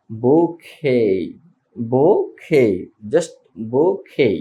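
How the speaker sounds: বোখে with silent t, ending on open e; বোখে: boh-KE, no final t; French bouquet. Shown as a demonstration. Teacher shows bouquet as বোখে, dropping the t. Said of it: "but এটা উচ্চারণ হবে".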